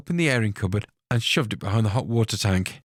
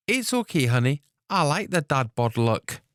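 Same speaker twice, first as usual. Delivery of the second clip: teasing; 5 semitones higher than usual. Acted. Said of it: "she said, teasing him".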